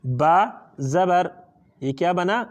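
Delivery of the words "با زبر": slow spelling out. Shown as a demonstration. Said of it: "تو یہ ہجا ہے".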